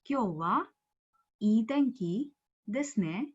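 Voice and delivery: slow, careful "Kyo wa ii tenki desu ne?"; teacher modelling the phrase slowly; slow model reading. Shown as a demonstration. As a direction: spell out each word for students. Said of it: "repeats the sentence as model".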